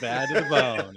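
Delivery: laughing through the song title. Retold or imitated. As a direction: chuckle the line out. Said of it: "now that song is in my head".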